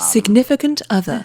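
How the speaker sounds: plain British delivery; British accent. Shown as a demonstration. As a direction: say it in your own British accent. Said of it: "significant other in your British accent".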